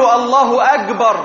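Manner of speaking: wrong hard g in أكبر, "agbar"; kaf as Egyptian jim. Shown as a demonstration. Teacher showing a muezzin's error, g for k in أكبر. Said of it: "كالجيم المصرية".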